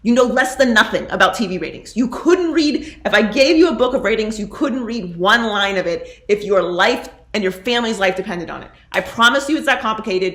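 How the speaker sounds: emphatic, building to a loud tirade; indignant rant. Real, not acted. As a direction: tear into an online know-it-all. Ranting at an online critic.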